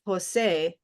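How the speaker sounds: Jose as ho-SAY, stress on the end; Jose as an English speaker would say it. Shown as a demonstration. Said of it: "where's the stress".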